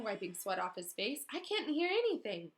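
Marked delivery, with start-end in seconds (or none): 1.3-2.5 puzzled Ron. Acted. Ron confused after chase.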